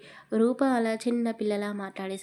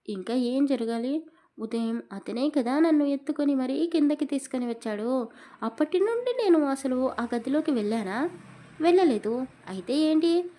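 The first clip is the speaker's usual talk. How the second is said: put-on higher, childish sulking complaint; young wife sulking at her husband, higher and whiny; sulky angry outburst; 5 semitones higher, 4 dB louder than usual. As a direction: whine it like a pouting child. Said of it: "కోపంగా వాడిపై అరిచేసింది".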